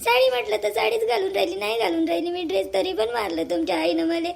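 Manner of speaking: half-sobbing protest with a tear in the voice; tearful. Acted. Wife protesting to husband through mild tears. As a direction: argue through tears that you did nothing wrong. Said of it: "म्हणता तुम्ही रडू नका".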